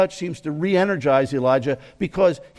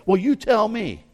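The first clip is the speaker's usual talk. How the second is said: sarcastic; 6 semitones higher than usual. Pretend. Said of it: "something very sarcastic".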